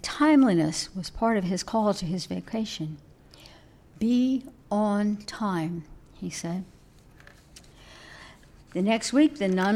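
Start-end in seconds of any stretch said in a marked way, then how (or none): 4.0-5.8 slow, deliberate stern command; a hermit sternly warning the nun; stern order. Acted. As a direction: lay down the rule word by word. Monk chides the nun.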